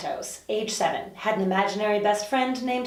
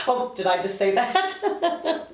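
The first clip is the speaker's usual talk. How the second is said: slow mock surprise; 3 semitones higher, slower than usual. Catches her own slip.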